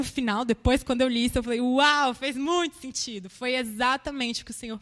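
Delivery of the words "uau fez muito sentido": loud, excited wow; retold moment of amazement; amazed realization. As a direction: burst out with the wow, then ease off. Reliving her amazement at reading it.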